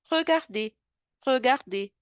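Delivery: "regarder" repeated with a French R. Shown as a demonstration. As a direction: drill "regarder" again the French way. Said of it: "é regarder".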